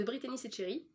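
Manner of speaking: "Brittany Setcheri" said with French sounds; French pronunciation. Real, not acted. Vlogger who speaks no Italian, "Brittany Setcheri" pronounced the French way. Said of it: "je le dis à la française".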